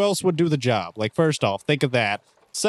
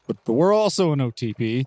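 mildly flustered stammer; protest, slightly put out; a little kerfuffled. Acted. Wilson feeling left out by friends, a little kerfuffled. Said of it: "a little kerfuffled by that".

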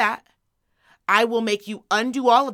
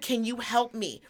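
gentle request. Retold or imitated. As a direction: ask kindly, like a teammate. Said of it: "I just said".

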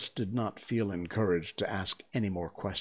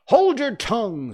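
sharp rebuke; 12 dB louder than usual. A narrator's reading. Gryphon cutting off Alice's argument, loud rebuke. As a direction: silence her with a high, loud command.

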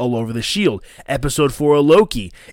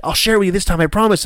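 higher, coaxing mock promise; mocking sweet voice; 6 semitones higher, much faster than usual. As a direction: tease like a sly child. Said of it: "It's like".

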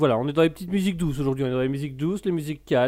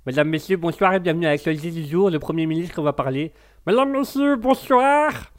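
put-on English accent; 3 semitones higher, 3 dB louder than usual. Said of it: "j'adore son accent".

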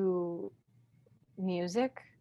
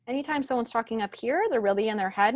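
pitched up into the head voice; high-pitched demo; 4 semitones higher, 4 dB louder, faster than usual. Shown as a demonstration. Coach showing how head talking sounds, high-pitched. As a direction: talk high, up in your head. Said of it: "It's very high pitched".

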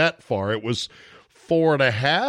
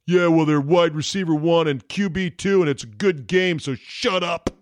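mock angry fan; 3 semitones higher than usual.

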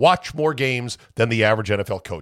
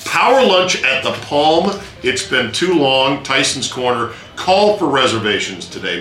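parody news anchor. Acted. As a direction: sell it like a radio spot. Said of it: "Anchor voice in a very long time".

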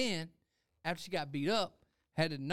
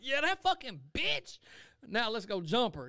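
mock sarcastic agreement; 6 semitones higher, slower than usual. Mock agreeing with angry friend.

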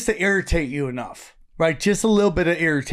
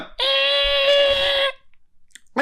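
alarm noise. Retold or imitated. Imitating the airport door alarm, blaring drone.

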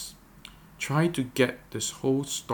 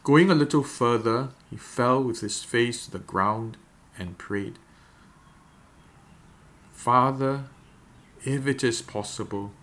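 measured, deliberate Bible reading with long pauses; slow scripture reading. Real, not acted. Pastor reading the Gethsemane passage for meditation, slow and deliberate. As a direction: read it out phrase by phrase, leaving room to picture it. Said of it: "I'm gonna read it very slowly".

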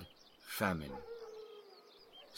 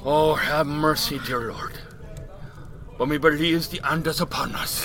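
put-on old Irish drunk; 5 semitones higher than usual. Mickey's voice.

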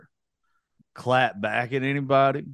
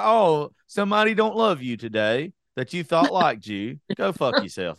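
mock whiny sympathy plea; 5 semitones higher, 4 dB louder than usual. Mocking a crying video poster.

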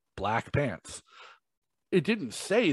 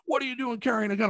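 imitating the cop; 12 semitones higher, 3 dB quieter, faster than usual. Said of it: "he's like".

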